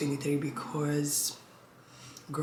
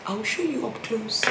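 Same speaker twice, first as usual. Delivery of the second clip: whisper; 6 semitones higher than usual. Real, not acted. Leaning in to camera.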